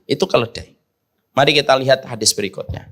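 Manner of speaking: ordinary delivery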